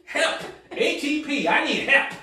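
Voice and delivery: acted urgent begging; desperate plea. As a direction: call for help in mock desperation, word by word. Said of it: "when you desperate".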